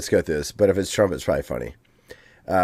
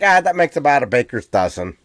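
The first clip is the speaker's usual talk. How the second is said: Chris Farley's Chicago superfan; casual brag in a Chicago accent; 3 semitones higher than usual. Retold or imitated. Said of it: "Chicago has this accent".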